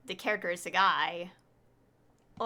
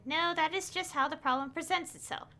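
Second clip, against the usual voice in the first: higher-pitched, measured character reading; game dialogue read-aloud; 5 semitones higher than usual. Acted. Streamer voicing an expert explaining the spike, reading aloud.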